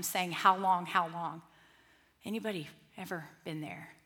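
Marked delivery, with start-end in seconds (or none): 0.3-0.9 a pleading cry to God; raised, aching plea. Retold or imitated. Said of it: "crying out to him". 0.9-1.4 the echo falls away, weary; fading plea. Retold or imitated. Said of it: "crying out to him".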